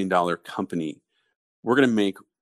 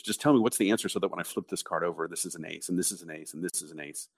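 quiet; 2 semitones lower, 7 dB quieter, faster than usual. Retold or imitated. Owners pleading for answers.

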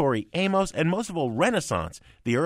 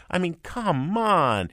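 exasperated; 5 semitones higher, slower than usual. Real, not acted. Exasperated dismissal.

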